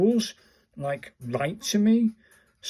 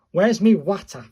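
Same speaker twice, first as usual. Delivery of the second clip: mock exclaim; 6 semitones higher, 10 dB louder than usual. Playful exclamation over the word.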